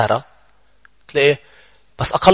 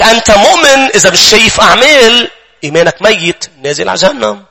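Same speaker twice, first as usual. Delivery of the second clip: higher and louder, a stern condemning accuser; harsh accusing voice; 7 semitones higher, 4 dB louder than usual. Acted. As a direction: hurl the verdict at him like a judge.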